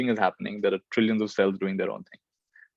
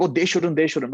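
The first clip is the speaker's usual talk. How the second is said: judging; 6 semitones higher than usual. Retold or imitated. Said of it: "instead of saying".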